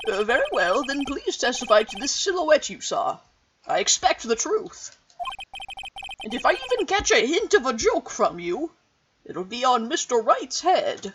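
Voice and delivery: stern judge. Acted. Judge warns the witness sternly.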